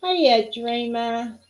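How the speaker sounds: very slow, lightly lifted hello to a pet; drawn-out pet greeting. Real, not acted. Crafter saying hi to Dreamer, very slow and drawn out. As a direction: stretch each syllable for the pet.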